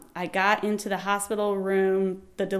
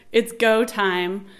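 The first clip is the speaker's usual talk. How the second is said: mild mock yell, drawn out; retold yell; much slower than usual. Husband to front desk guy, mild slow mock yell. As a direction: retell a holler at near-normal volume. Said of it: "So Sean's yelling".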